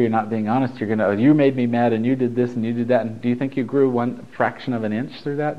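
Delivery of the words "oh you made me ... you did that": louder, mildly angry accusation; mock angry blame. Angry person blaming whoever made them mad, mock indignant. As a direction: play at blaming someone, lightly heated. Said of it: "So if you're being angry".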